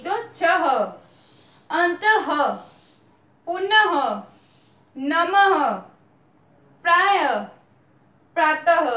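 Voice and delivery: each word said slowly with a clear h at the end; careful word reading. Shown as a demonstration. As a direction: sound out every visarga word for the children. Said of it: "इसकी ध्वनि change हो जाएगी". (हर शब्द के अंत में साफ़ ह की ध्वनि)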